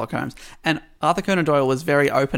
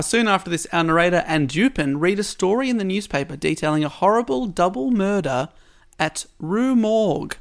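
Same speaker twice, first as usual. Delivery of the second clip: measured storytelling, lingering on key words; story narration; 4 semitones higher than usual. A narrator's reading. Podcast host recounts the double murder at Rue Morgue, story narration. Reads prepared story summary aloud.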